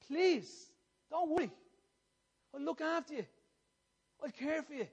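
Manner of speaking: mildly imploring, pitch lifted; pleading. Retold or imitated. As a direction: beg them tenderly to trust you. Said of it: "Christ pleading with the people".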